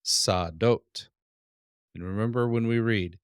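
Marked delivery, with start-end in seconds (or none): 0.0-1.1 sadot with a rising end; sadot, plural of field; Hebrew word sadot. Shown as a demonstration. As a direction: say sadot to the class. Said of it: "plural of field".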